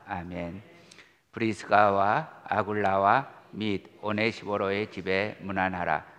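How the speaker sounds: measured, solemn Bible reading; calm liturgical reading voice; scripture reading. Acted. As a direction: read the epistle steadily to the congregation. Reads scripture aloud.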